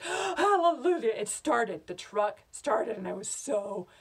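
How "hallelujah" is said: high, loud, drawn-out rejoicing; gasp, then cry it out in relief; slow, jubilant exclamation; ecstatic relief. Acted. Acted relief when truck starts.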